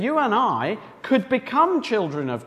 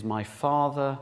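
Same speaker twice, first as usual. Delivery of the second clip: gentle reassurance; 10 semitones lower, 9 dB quieter, slower than usual. Shown as a demonstration. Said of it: "keep reminding ourselves of".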